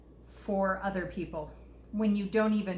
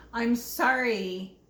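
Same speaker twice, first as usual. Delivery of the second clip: drawn-out plea of sorry; slower than usual. Retold or imitated. Years of apologizing to others, a slow pleading sorry. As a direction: stretch out the final apology as if it's the last straw. Acted apology from her past.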